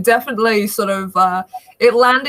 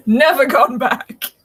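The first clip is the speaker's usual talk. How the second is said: slow emphatic; 4 semitones higher, slower than usual. Real, not acted. Emphatic verdict after laugh.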